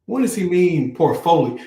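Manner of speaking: a listener stumped by a word; puzzled listener. Retold or imitated. Rapper imitating a confused fan wondering what a word means. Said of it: "make them question and wonder".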